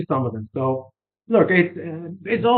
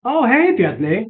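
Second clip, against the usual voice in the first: surprised recognition; 5 semitones higher, slower than usual. Retold or imitated. Receptionist pretending to recognise the caller, high and surprised. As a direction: pitch jumps up on oh hey. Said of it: "And she went".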